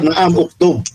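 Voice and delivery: "Naam, uktub" as a teacher's confirming answer; confirming intonation. Acted. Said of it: "Kata Ustaz".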